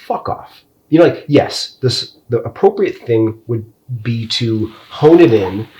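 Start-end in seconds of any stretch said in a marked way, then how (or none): 0.1-0.6 breathy whispered fuck off; muttered dismissal, barely voiced; whispered brush-off. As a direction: hiss it under your breath. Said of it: "for me, it's like".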